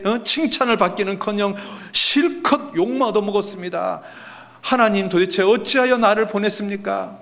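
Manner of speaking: high-pitched indignant pleading; acting out a wronged man's complaint; aggrieved. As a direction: protest the unfairness to God. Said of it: "마음이 억울해졌습니다".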